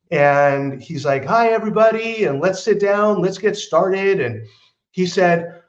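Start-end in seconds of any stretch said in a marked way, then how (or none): 1.2-4.2 higher, bright mock host greeting; a lightly hammed-up psychic welcoming the room; mock cheery psychic. Narrator imitating the psychic greeting everyone.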